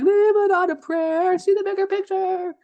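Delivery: put-on high, playful Aussie accent; David voiced in an Aussie accent. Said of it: "But with an Aussie accent".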